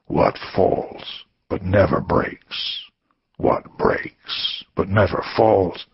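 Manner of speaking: slow, half-whispered riddle; slow riddling whisper. Acted. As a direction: tease it out word by word.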